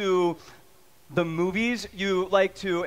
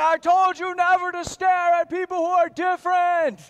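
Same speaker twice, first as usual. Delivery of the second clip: put-on high, loud hissed-at-kid parent voice; scolding parent; 10 semitones higher, 5 dB louder than usual. Parent scolding staring child, high and loud. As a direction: scold the child while hauling them off.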